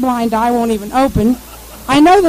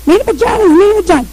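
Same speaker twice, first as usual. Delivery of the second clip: radio voice; 9 semitones higher, 5 dB louder, faster than usual. Retold or imitated. Imitating garbled radio voice.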